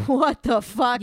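loud, startled retelling; mock shocked reaction. Quoting Joe hearing the accent, mock shocked. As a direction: burst out loudly in imitated disbelief. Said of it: "Joe was like".

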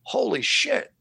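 high, stunned holy shit; mock-amazed gasp of disbelief; amazed exclamation. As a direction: blurt it out, blown away. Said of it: "I was like".

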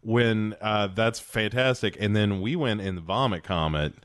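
chatty anecdote in a lightly put-on star voice; Tom Hanks. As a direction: do a mild actor impression, reminiscing. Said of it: "And Tom Hanks is like".

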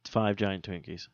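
talking around ice in mouth. Real, not acted. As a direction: mouth full of ice, words blurred. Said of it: "I got ice in my mouth, guys, so I'm talking weird".

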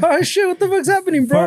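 a high, dazed and clueless voice; dazed slow-motion guy. Retold or imitated. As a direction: play him out of it, half a beat behind. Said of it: "Everything was in slow motion for that guy".

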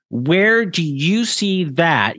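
"Where do you see that" slow and drawn out; emphatic challenge. Real, not acted. Challenging Greg and his followers on "Where do you see that", slow and emphatic. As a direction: press each word of "Where do you see that", slowly.

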